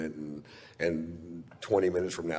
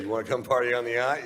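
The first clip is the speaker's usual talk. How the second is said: inviting friend; 5 semitones higher, faster than usual. Retold or imitated. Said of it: "if somebody says".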